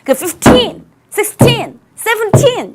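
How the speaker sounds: put-on "fifteen", "sixteen", "seventeen" with the stress on "-teen"; stress on the end. Shown as a demonstration. Teacher showing students the "-teen" stress. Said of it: "뒤에 강세가 있어".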